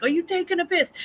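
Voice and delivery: husband's high mock British accent. Husband teasing British guests in mock British accent. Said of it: "because he's like".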